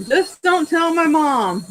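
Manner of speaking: laughing while confessing. Real, not acted. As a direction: giggle through the words.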